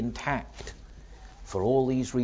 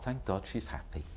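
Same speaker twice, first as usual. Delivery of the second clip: from the heart; 3 semitones lower, 10 dB quieter than usual. Acted. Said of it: "say from the heart".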